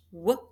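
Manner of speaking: wash broken into separate sounds; sounded out. Shown as a demonstration. Teacher sounding out wash for students, sound by sound. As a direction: say w, ah, sh one by one. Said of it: "this word is wash".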